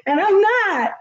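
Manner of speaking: high bursting laugh, then a laughing denial; giggling through a denial. Real, not acted. Laughs at kids' disbelief.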